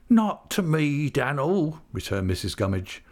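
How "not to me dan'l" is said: high, drawn-out plaintive lament; forlorn widow. A narrator's reading. Missus Gummidge refusing to cheer up, high forlorn voice. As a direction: wail it in self-pity.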